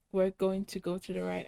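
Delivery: talking through a yawn; words stretched by a yawn. Real, not acted. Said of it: "I'm sorry, I just yawned".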